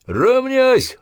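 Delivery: high, loud parade-ground yell; drill command. Acted. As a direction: crack the command out hard.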